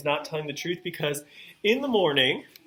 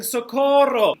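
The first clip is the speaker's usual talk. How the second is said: calling for help; 8 semitones higher, 6 dB louder than usual. Retold or imitated. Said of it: "he's saying".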